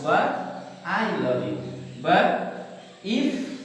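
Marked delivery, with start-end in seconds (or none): 0.9-1.6 "I" carrying the main emphasis; stress on I. Shown as a demonstration. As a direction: make "I" stand out, let "love you" fall. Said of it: "no others".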